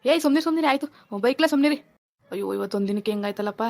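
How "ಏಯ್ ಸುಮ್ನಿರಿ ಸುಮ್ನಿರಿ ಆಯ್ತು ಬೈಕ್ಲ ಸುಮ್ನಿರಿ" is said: raised-pitch scolding; exasperated hushing. Acted. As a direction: hush crying children impatiently. Father hushing crying children. (ಗದರಿಸಿ ಸುಮ್ಮನಿರಿಸುವುದು)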